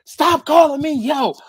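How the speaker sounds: high, loud mock annoyance; irritated retort. Coworker ordering him to quit it, high irritated retort. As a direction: snap back as the fed-up coworker.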